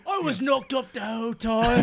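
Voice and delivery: high, put-on woman's voice; feminine voice. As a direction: play it girly and high. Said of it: "say it in a more feminine way".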